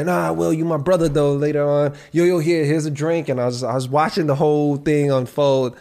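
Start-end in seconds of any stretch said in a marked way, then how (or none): 0.0-1.3 higher, buddy-buddy plea; hammed-up friend laying it on; mock brotherly coaxing; imitating the friend. Friend voiced in retold scene. 2.1-3.3 higher, pushy offer of a drink; hammed-up friend shoving a drink over; imitating the friend.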